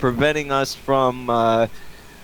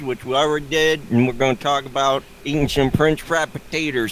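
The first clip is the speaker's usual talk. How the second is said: put-on hillbilly accent. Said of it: "it's just a funny voice".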